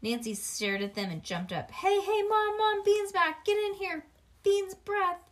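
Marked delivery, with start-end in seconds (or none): 1.7-5.2 high, loud calling out; shouting for Mom. A narrator's reading. Nancy shouting to Mom that Bean is back, high and loud. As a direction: holler for Mom across the house.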